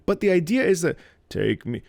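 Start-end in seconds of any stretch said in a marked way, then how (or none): 1.3-1.8 unplanted low note. Shown as a demonstration. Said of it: "she doesn't plant it".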